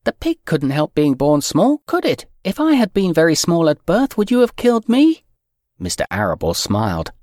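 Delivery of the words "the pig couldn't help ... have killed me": put-on high pleading girl's voice, fast; upset little girl. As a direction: protest like a desperate child. Fern pleading with her father.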